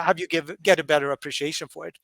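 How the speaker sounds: ordinary talk, nothing marked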